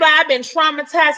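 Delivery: mock anguish. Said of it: "She said".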